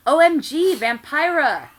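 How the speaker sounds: very high, loud excited cry; overacted delighted greeting; hammed-up squeal. A narrator's reading. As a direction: squeal like a fangirl. Dramatic reading of fan fiction.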